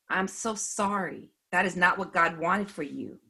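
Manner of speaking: sincere sympathy. Retold or imitated. Telling hurt former believer it was not God's wish, sincere sympathy. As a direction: offer heartfelt, gentle sympathy. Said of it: "he sensed my sincerity".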